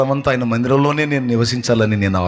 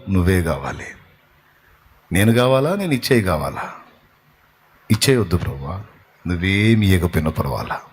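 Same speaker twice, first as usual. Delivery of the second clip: tender longing prayer; 5 semitones lower than usual. Pretend. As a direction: beg the Lord gently, full of longing. Believer's acted prayer to the Lord.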